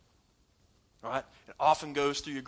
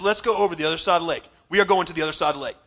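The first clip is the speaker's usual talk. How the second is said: brisk, sure declaration; Jesus declaring it as certain; confident command; 6 dB louder, faster than usual. Retold or imitated. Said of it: "He says".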